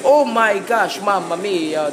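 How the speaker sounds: high, loud outburst; alarmed exclamation. Real, not acted. Gamer reacting to a lot of zombies, alarmed exclamation. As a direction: cry out in shock, pitched high.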